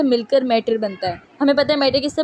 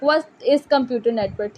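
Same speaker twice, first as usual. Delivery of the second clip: each word drawn out for writing; very slow dictation; much slower than usual. Shown as a demonstration. Teacher dictating the book question to students, very slow. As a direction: read the question out slowly.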